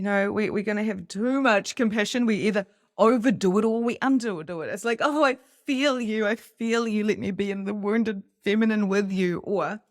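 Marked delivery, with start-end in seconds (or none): 5.0-9.4 higher, hammed-up gushing empathy; mock sympathy. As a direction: parody someone who wallows in your pain with you. Mocking overdone compassion.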